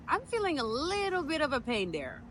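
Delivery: high-pitched, tentative report; retold twinge, voiced high and unsure; tentative complaint. Woman on phone to midwife as pain starts, high and tentative.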